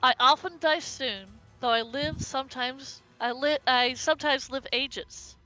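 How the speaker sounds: slow, measured riddle recital; riddle reading. Acted. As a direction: read it like an old riddle. Reads riddle note aloud.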